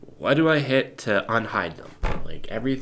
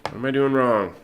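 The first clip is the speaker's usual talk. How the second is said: exasperated question; 7 dB louder than usual. Real, not acted. Frustrated question to the software.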